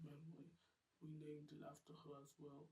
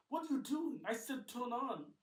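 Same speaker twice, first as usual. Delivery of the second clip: very high, loud furious yell; angry shout; 9 semitones higher, 17 dB louder than usual. Acted. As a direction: yell at the dead lights. James yells at lights.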